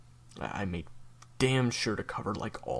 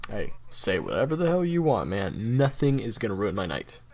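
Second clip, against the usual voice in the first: defiant cheer; 6 dB louder than usual. Acted. Defiant partying.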